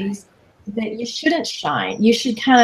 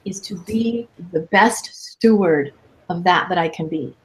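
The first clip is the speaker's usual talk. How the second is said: a deliberate, weighty pace; said slowly; 3 semitones lower than usual. Shown as a demonstration. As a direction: lean on each word as if for emphasis. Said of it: "I just wanna say this really slowly".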